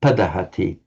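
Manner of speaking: padahati stressed on its first syllable, pa; stress four back. Shown as a demonstration. Teacher showing an unlikely reading, padahati stressed on pa. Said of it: "to have the stress four back".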